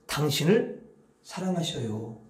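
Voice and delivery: calm loving words of blessing; gentle blessing. Shown as a demonstration. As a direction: say it like a tender blessing. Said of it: "이렇게 말을 하시라는 거야".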